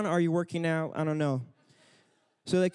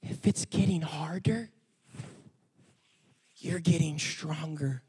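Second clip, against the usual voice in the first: gentle encouragement; slower than usual. Retold or imitated. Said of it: "Canaan goes over to him and says".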